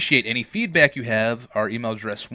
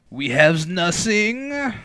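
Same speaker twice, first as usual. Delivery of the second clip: mock dramatic; 8 semitones higher, 5 dB louder, much slower than usual.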